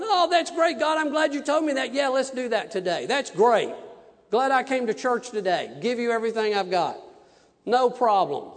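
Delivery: high, loud sarcastic cheer; mock cheerful. Preacher mocking the cheerful answer he never gave God, high and loud. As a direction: fake the glad reply he never gave. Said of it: "I'm not going".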